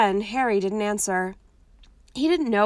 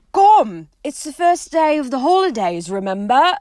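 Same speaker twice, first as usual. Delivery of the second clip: lightly voiced Ron; 7 semitones higher, 9 dB louder than usual. Ron voiced, loud and higher.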